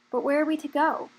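put-on young dragon crying out in despair over leaving home. A narrator's reading. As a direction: cry out in despair. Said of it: "cried one of the dragons in despair".

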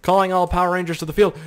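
hammed-up Power Rangers rally cry; mock hero call. Shown as a demonstration. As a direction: summon the heroes like a TV show. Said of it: "I wish I had a soccer team called the Power Rangers".

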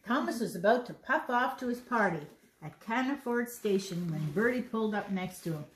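put-on lively read-aloud to children; story narration. A narrator's reading. Reading the Thomas story aloud to children, narrating. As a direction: read the picture book out to a little one. Reads a picture book to children.

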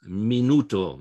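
"minuto" said slowly, weight on NU; teacher's slow model of "minuto", middle syllable stressed; next-to-last syllable stress. Shown as a demonstration. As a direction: draw out "minuto" as mi-NU-to. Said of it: "It's the next to last one".

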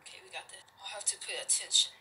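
exaggerated cartoon intonation. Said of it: "But why are you talking like that?".

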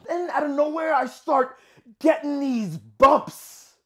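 agitated dramatic delivery; rising agitation. Acted. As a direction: let the frustration start to break out. Monologue, trouble starts.

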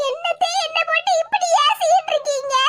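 tearful protest. Acted. Daughter-in-law crying out against her mother-in-law's scolding. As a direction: plead through fake tears.

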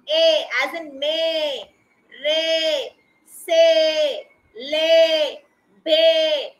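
"may, re, se, le, be" each ending in a held "ay"; long A sound. Shown as a demonstration. Teacher listing A-Y examples, long "ay" in "may, re, se, le, be". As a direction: stretch the "ay" vowel in "may, re, se, le, be". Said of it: "changes to long sound".

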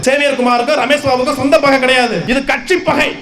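forceful protest speech in long, punched phrases; impassioned rally oratory. Real, not acted. Party speaker denouncing a political killing to a crowd, impassioned oratory. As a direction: address a crowd with indignant conviction.

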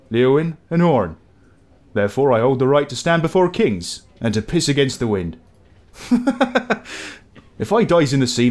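lightly done rustic West Country sailor burr; a hint of a proud old seadog's brogue; old sailor accent. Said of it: "Apologies for my accents there".

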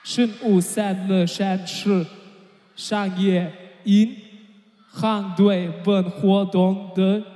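careful non-native Mandarin reading; foreigner speaking Mandarin. Real, not acted. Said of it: "my Chinese not good. But I need to read this".

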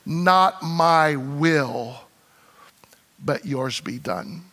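Jesus praying his surrender, hushed and slow; quiet surrender. Acted. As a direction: let it fall to a hushed yield. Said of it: "he was resolved over here".

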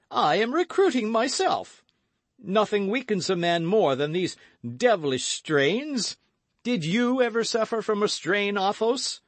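high, loud, blustering musketeer; boisterous Porthos. A narrator's reading. Porthos excusing his feast to friends, blustering.

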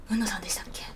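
shy whispered question. Retold or imitated. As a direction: ask timidly, almost under your breath. Shy guy approaching her. (ささやくように恐る恐る尋ねる)

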